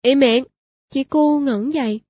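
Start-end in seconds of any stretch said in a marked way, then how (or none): 0.0-0.4 sharp, loud command to be silent; barked order. Acted. Clerk shouts at the grieving widow, loud and sharp. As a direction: snap it out to cut her off. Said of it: "một tiếng quát".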